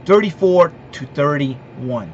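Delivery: "thirty-four to thirty-one" spelled out slowly, each number weighed; slow emphatic. Shown as a demonstration. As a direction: announce the final score slowly, like a verdict. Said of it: "I'm gonna give you my prediction".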